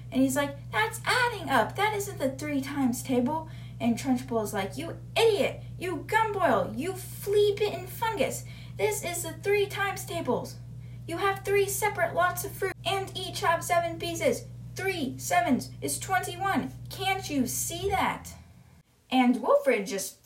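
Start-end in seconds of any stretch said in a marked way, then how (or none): 0.7-3.5 high-pitched schoolboy protest; acted indignant pupil. Boy protests to headmistress. 4.8-18.3 high, berating headmistress without full volume; retold angry tirade, pitched up; mock yelling. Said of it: "is just yelling at him".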